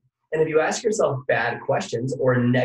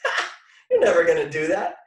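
a laughing scoff, a bit louder; mocking inner voice; 3 dB louder than usual. The doubting inner voice mocking a big goal, with a laughing scoff. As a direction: laugh at your own dream, then dismiss it. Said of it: "that little voice back here that, like, goes".

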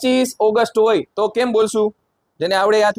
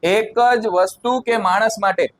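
slow teacher's recital for repeating; say-along model; slower than usual. Shown as a demonstration. Teacher has everyone say it along, slow say-along model. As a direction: recite it slowly so a class can chant along. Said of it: "મારી સાથે બધાએ બોલવાનું".

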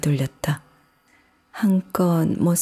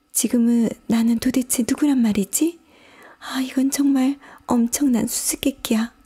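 put-on high, puzzled girl's voice thinking aloud; Alice; 6 semitones higher than usual. A narrator's reading. Alice fanning herself, puzzling over who she is. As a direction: wonder to yourself in a high character voice. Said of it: "부채질을 하며 중얼거렸다".

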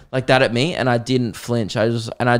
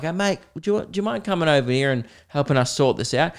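mock polite; 3 semitones higher, 4 dB quieter than usual. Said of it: "not in, like".

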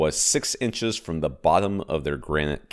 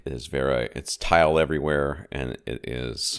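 echoey kitchen room sound. Real, not acted. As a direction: speak in a tiled, echoing kitchen. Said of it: "if I sound a little echoey, I am in my kitchen".

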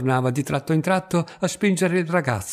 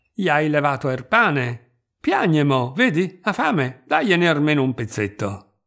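rising, pleading Roman reproach; Tuta, reproachful. Acted. Tuta scolding the boy who took the bread, reproachful.

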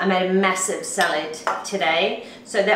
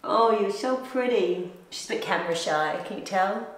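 hushed, low aside to a shy companion; soft cooing; 4 semitones lower, 8 dB quieter than usual. Real, not acted. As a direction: coo softly, fading to very quiet. Cooing to someone camera shy.

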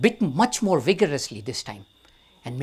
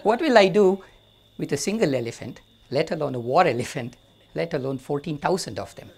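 amused, louder scoffing laugh in the voice; laughing at him; 5 dB louder than usual. Acted. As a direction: laugh off the silly offer. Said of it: "Vasishtha laughs at him".

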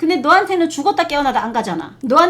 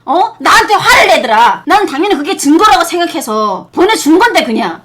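louder and louder, indignant and rising; heated rant; 3 semitones higher, 7 dB louder than usual. Real, not acted. To the mistress, about the lawyer scolding her over the photo, an indignant loud rant. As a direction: let the outrage build as you tell it.

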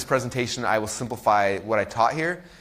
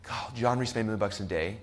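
hushed, softer daydreaming to yourself; softer, awed inner musing; dreamy inner voice; 5 semitones lower, 8 dB quieter than usual. Retold or imitated. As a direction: wonder quietly at the possibility. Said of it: "you visualize yourself".

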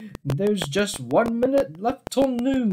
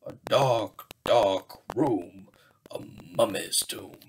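spooky whisper; 9 semitones lower, 4 dB quieter than usual. A narrator's reading. Spooky tomb in story.

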